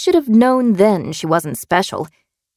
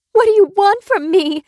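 mild scream. A narrator's reading. Captive demands answers from captor, contained high scream. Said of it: "she screamed".

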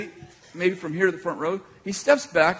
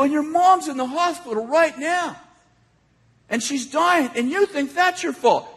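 acted confrontation; 7 semitones higher than usual. Re-enacts blurting revelations at attacker.

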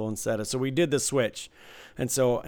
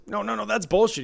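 high, mock-outraged protest; indignant protest; 8 semitones higher than usual. Dealer acting out an angry player refusing the misdeal, indignant. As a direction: imitate a sore loser objecting.

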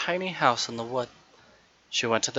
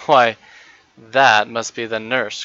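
put-on loud childlike cry of recognition; little girl crying out the nurse's name at the door, loud; cried out; 7 dB louder than usual. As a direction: call it out eagerly, louder. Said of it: "cried Meg".

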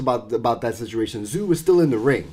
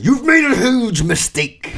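loud, slow playful call-out; mock shout; 8 semitones higher, 4 dB louder, slower than usual. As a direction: shout it out, laughing.

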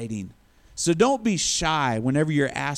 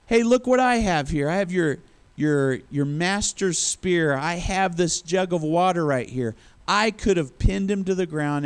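mock yell. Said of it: "David yells at Saul".

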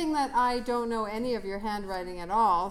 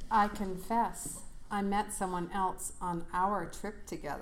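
sultry narrator. Acted. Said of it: "we've been practicing our sultry voice".

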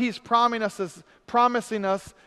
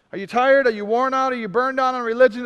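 louder, punchier questions; emphatic; 3 semitones higher, 4 dB louder than usual. Shown as a demonstration. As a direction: fire the questions at the crowd. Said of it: "repeats question with force".

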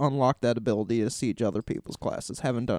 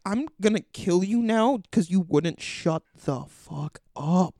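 higher-pitched mock threat; retold fed-up threat; 4 semitones higher than usual. Player to a rambling orc, mock fed-up threat. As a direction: spell out the threat, playfully fed up. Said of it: "I'm like".

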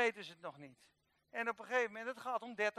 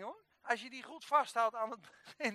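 usual speaking voice

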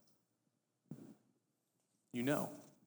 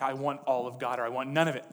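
a touch louder, imitating a forceful preacher; mock fervent demand; 7 dB louder than usual. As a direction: briefly punch it out in imitation. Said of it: "One's like".

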